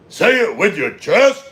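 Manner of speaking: loud, high, drawn-out shout; from the chest, loud. Acted. Streamer acting out a viewer's challenge, shouting it slowly. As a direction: belt it out slowly, every word punched.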